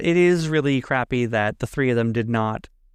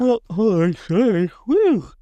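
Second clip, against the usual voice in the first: talking through a big yawn; 8 semitones higher, 3 dB louder, slower than usual. Real, not acted. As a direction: stretch the words out with a yawn. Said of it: "Where's this yawn coming from?".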